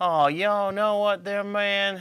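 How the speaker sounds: laid-back southern drawl. Describing how a musician talks, super laid back: imitating the musician's Southern drawl. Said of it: "He's a good old Southern boy".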